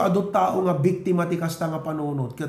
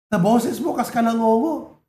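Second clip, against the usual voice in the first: louder and higher, a teacher's jeer; mocking teacher; 5 semitones higher, 4 dB louder than usual. Pastor imitating a teacher mocking his singing, jeering. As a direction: sneer it like a scornful teacher.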